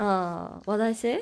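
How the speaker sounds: hoarse voice, clearing the throat. Real, not acted. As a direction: talk through a hoarse voice. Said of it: "声が枯れてるわ".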